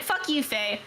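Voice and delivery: mock-angry rant breaking into laughter; retold meltdown. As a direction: playfully replay an indignant tirade at a friend. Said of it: "I was having, like, an absolute moment".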